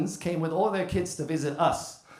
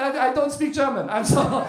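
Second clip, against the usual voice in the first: higher, hurried flustered apology; flustered panic; 7 semitones higher, 4 dB louder than usual. Retold or imitated. Comedian caught staring, flustered and apologetic. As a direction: blurt it out in a panic.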